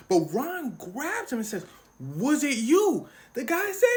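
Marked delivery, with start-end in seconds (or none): 2.0-3.1 menacing question. Retold or imitated. Ron grabbing the fan, slow menacing question. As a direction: ask it slowly like a threat.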